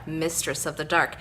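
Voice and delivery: campy horror hostess line, Dark stretched long; Elvira voice. Pretend. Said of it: "Like my little intro there".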